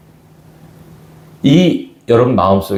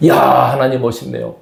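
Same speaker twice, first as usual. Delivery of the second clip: rising wonder, higher with each 야; awed praise; 5 semitones higher than usual. Shown as a demonstration. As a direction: exclaim to God in growing amazement. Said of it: "계속 이 말만 해도 부족합니다".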